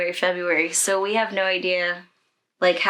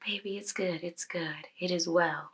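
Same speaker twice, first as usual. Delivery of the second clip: much softer, gentle comfort; soothing; 4 dB quieter than usual. Retold or imitated. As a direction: hush her like a mother would. Nurse comforting a crying patient.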